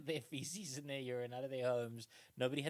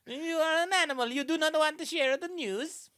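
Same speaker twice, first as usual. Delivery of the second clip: much higher and much louder, laughing through an affronted aristocrat; snooty Roman; 13 semitones higher, 11 dB louder than usual. Retold or imitated. Romans defending shared latrines, affronted loud sneer. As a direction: scoff like an offended Roman noble. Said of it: "they were like".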